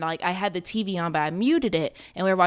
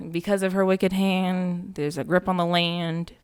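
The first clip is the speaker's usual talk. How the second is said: slow ominous poem; slow solemn recitation; poem recital. Shown as a demonstration. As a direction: recite it like a dark rhyme. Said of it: "a little riff on their little poem".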